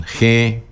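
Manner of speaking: "G" said as hẽ, e through the nose; nasal vowel. Shown as a demonstration. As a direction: affirmative "G" as nasal hẽ. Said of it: "Con la primera es nasal".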